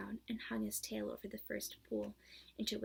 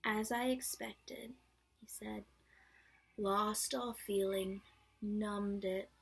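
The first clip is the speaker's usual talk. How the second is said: slow, lightly gloomy donkey voice; gloomy Eeyore; 4 dB louder, slower than usual. Acted. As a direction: drag it out as Eeyore.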